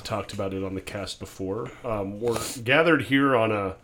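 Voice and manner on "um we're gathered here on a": mock officiant. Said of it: "Are you about to do my wedding ceremony".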